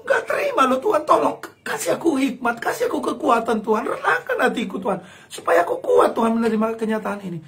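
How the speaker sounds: tearful half-laughing prayer; pleading prayer. Acted. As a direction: beg God for help, emotional. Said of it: "ngomong sama Tuhan".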